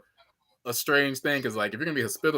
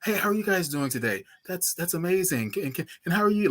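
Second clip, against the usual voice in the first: higher, chirpy server greeting; mock cheery waitress; 8 semitones higher than usual. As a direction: imitate an overeager waitress chatting up the table. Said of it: "the waitress is gonna".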